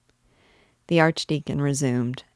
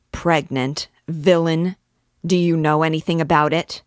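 rising into a louder, fast furious accusation; sudden anger; 2 semitones higher, 5 dB louder than usual. Acted. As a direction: flare up and accuse him. Priest's eye flashes at Gringoire.

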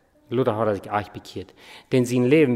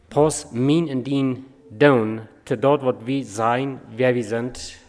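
drawn-out repeat, each word weighted; slow and deliberate; slower than usual. Shown as a demonstration. Preacher repeating the line to his congregation, slow and weighty. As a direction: slowly lay out every word so it sinks in.

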